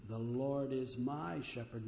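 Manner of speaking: slow, leaning on "my"; slow down and single out the word "my"; stress on "my". Retold or imitated. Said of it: "This is the finger of love. And when you say that".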